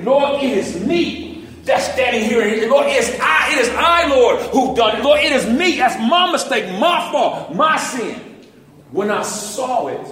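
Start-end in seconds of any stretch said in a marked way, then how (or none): 0.0-8.2 confessing cry. Pretend. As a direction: cry it out to the Lord, it is I. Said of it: "You gotta say".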